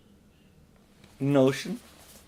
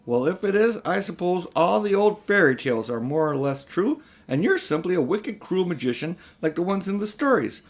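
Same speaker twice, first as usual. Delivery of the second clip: put-on raised, higher voice of an outraged boy; defiant boy; 5 semitones higher than usual. Diggory telling his uncle he'll be paid out, defiant. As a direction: stand up to the wicked uncle.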